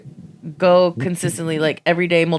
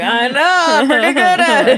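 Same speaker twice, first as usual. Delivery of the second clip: high, loud, breaking into laughter; laughing boast; 8 semitones higher, 6 dB louder than usual. Retold or imitated. Retelling reply to praise of impression, laughing boast. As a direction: crow it through a laugh.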